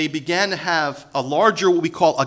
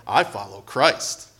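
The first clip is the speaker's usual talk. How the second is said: lower, slow holier-than-thou voice; pious spiritual one; 8 semitones lower, slower than usual. Retold or imitated. Preacher mocks the spiritual one, slow and pious. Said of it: "the spiritual one".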